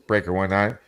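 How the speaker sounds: hammed-up trucker on the CB; CB radio voice. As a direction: call out loud like over the radio. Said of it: "we had a C B radio".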